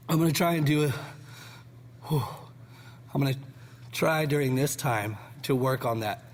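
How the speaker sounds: talking through burning hot wing; puffing between words, mouth burning; mouth full of hot food. Real, not acted. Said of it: "while my mouth is on fire".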